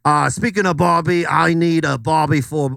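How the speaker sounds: lightly put-on Australian accent; hammed-up Aussie TikToker. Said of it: "I'm Sean Connery's cousin".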